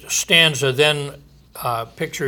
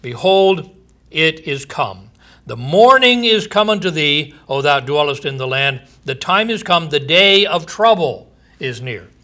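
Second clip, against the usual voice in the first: raised, ringing proclamation of doom; scripture reading. Acted. Preacher proclaiming judgment to his listeners, booming. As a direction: preach the verse out to the congregation.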